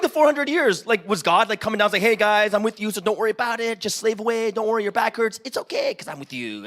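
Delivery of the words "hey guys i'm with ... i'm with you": mock God voice. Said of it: "God doesn't talk like that".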